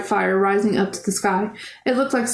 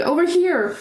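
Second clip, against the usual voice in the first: screaming; 8 semitones higher than usual. Acted. Girl spotting her brother in the fire, screaming to him. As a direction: scream to catch his attention. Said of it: "I screamed".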